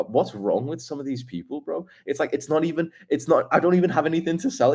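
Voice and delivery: ordinary talk, nothing marked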